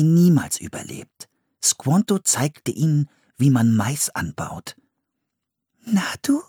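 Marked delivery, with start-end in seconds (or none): 5.8-6.4 hohes, lockendes Flüstern; geflüstert. A narrator's reading. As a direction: leise den Hund anlocken. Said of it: "flüsterte Anne". (geflüstertes Na du)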